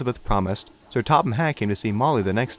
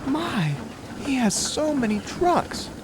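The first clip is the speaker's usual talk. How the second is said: much higher, slow, drawn-out wonder; marveling old lady; 14 semitones higher, 3 dB quieter, slower than usual. Acted. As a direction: marvel at the long train. Elizabeth marvels.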